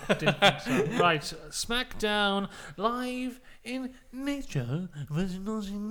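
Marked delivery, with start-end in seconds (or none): 1.5-5.9 announcer catchphrase. Pretend.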